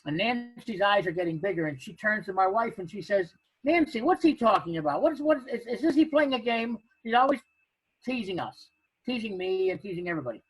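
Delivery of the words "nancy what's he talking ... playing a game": higher and louder, pleading, words tumbling; retelling a frantic woman's pleas; frantic friend. Retold or imitated. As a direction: play the worried friend begging to know. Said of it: "Now she's frantic".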